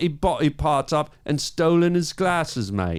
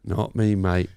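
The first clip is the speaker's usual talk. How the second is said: low, lightly Australian "mate"; a hint of a gruff Australian bloke heckling; mock Australian heckler; 7 semitones lower than usual. Heckling a puppet in a light Australian accent.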